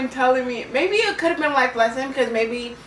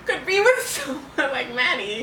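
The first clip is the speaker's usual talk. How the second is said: laughing mid-sentence. Real, not acted. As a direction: giggle through the words. Laughing at teacher's remark.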